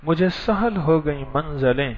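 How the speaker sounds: slow, measured verse recitation; poem recital. Real, not acted. To the dreamer, reciting an Urdu couplet slowly. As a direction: savour each word of the couplet.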